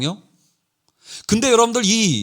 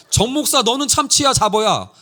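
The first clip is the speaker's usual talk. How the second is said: lightly imitated boss grilling staff; higher-pitched, quick-fire retold questioning; interrogating senior pastor; 5 semitones higher than usual. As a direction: put them on the spot, mildly acted. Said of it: "목사들 한 명 한 명을 물어요".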